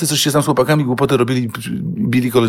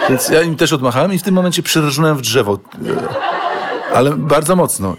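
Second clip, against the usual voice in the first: laughing; 3 semitones higher than usual. Real, not acted. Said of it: "laughing at own crash".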